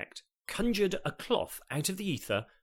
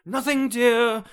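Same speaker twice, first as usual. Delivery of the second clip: much higher, louder, too-quick "nothing"; quick innocent reply; 12 semitones higher, 11 dB louder, slower than usual. Acted. Sean hiding the dropped duck, automatic guilty reply. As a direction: answer instantly, guilty innocence. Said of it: "came the immediate and automatic response".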